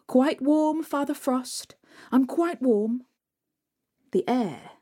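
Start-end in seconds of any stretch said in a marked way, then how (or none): 0.1-3.1 higher, bright brave answer; lightly voiced girl. Marusha answers Father Frost, higher and brave. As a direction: put on a brave face despite the cold.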